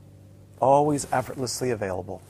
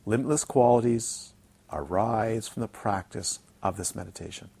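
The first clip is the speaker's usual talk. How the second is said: said slowly. Shown as a demonstration. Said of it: "I'll say it very slowly so it sinks in".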